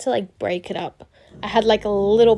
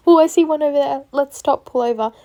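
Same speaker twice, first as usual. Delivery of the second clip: excited spotting; 4 semitones higher, 5 dB louder than usual. Retold or imitated. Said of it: "I'd be like".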